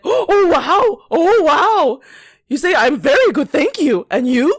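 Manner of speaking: mock him lecturing her manners; mock offended coworker. Mocking the coworker correcting her greeting, high and prissy.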